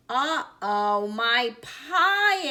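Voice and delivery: loud, rising dismay; Grandma's big dramatic uh-oh; alarmed cry. A narrator's reading. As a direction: cry out in alarm, climbing high on the last word. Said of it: "explained Grandma".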